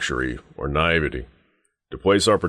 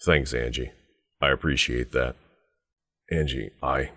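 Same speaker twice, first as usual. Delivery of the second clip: tender gratitude; 2 semitones lower than usual. Acted. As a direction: confide it gently to someone dear. Thanks Angie for returning family keepsake.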